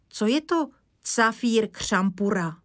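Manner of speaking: garbled words "cafír křampura"; puzzled child garbling "cafír křampura"; child's mispronunciation. Acted. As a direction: ask with "cafír" for facír, first sounds swapped. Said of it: "Ale facír, ne cafír".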